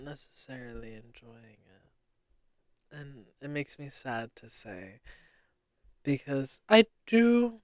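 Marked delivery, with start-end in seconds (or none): 6.1-7.5 rising, unsure because I do; questioning tone. Real, not acted. Podcaster doubting she enjoys it, questioning tone. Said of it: "I'm saying this in a questioning tone".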